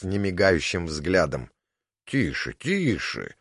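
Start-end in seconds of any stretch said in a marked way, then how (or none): 2.0-3.3 soft, slow, lullaby-like hush; menacing giant's lulling hush. A narrator's reading. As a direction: soothe him like a child, slowly. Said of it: "баюкающим тоном сказал".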